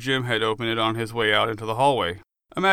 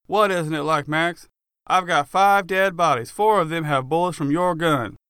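half screaming; 5 semitones higher than usual. Acted. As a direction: lay out the evidence, furious. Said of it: "half screaming at me".

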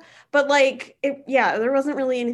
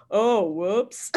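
put-on Boston accent; 3 semitones lower than usual. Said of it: "I'm really bad at accents".

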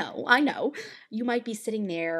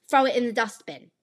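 British-style accent, higher pitched; other dialect; 4 semitones higher, 4 dB louder than usual. Shown as a demonstration. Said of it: "A dialect is the difference between".

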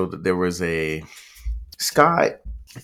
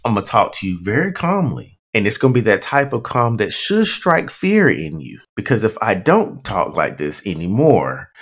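calm angry-parent voice; 2 semitones lower than usual. Acted. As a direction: warn a child very calmly, keeping control. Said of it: "that parent voice where you're like".

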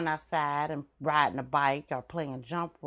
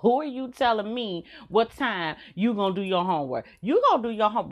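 put-on rising outrage at the kid, louder; indignant mom outburst; 5 semitones higher, 3 dB louder than usual. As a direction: snap back at the child in disbelief. Mom snaps at child.

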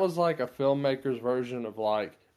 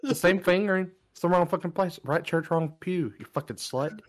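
a strained, higher mock director rant, slowing on the chords; mock Tarantino rant; 3 semitones higher than usual. Mocking the actress's guitar chords in a strained director rant. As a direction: jeer at the guitarist like a petty director.

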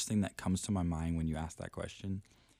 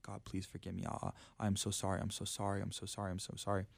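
soft, repetitive apology; understated pleading, quietly running on; retold begging; 6 dB quieter than usual. Retelling tearful prayer in the corner, soft begging. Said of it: "cried and was begging for forgiveness".

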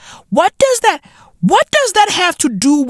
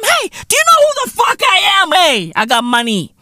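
mock boast; 3 semitones higher than usual. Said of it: "dropping fucking proclamations on some".

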